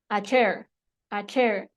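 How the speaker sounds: "A chair" run together in one sound; normal. Shown as a demonstration. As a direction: join "A" straight onto "chair". ("A chair" en un solo tiempo)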